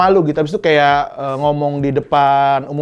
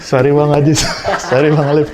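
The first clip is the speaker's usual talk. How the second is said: laughing through a louder apology; 4 dB louder than usual. Real, not acted. Comic apologizing to fellow comics for a crude joke, laughing. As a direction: say sorry while cracking up.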